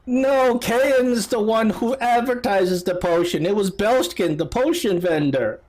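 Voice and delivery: lightly voiced mother on the witness stand; high-pitched mock witness; distraught mother. Mother testifies in a put-on voice.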